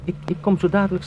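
distorted creature-like voice; strained animal-like call. Acted. Gregor speaks through the door.

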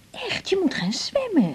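slow, hushed urging; whisper. Acted. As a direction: coax him under your breath. Urging him softly.

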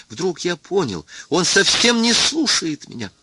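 plain reading voice

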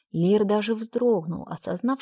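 ordinary delivery, nothing marked

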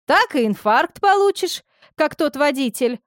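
put-on high gossipy old woman; chatty village orderly. A narrator's reading.

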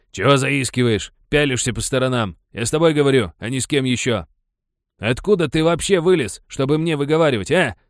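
loud, high angry tirade; bully berating the boy for glancing round. A narrator's reading. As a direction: tear into him.

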